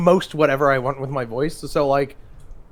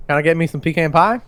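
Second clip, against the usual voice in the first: put-on Southern accent; 4 dB louder than usual. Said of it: "I live down in the South".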